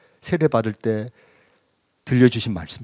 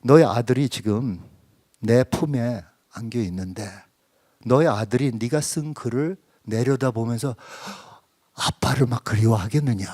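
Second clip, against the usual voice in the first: gentle, not rebuking; 3 semitones lower than usual. Retold or imitated. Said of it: "부드럽게 들리는 거예요. 책망하는 게 전혀 아니고".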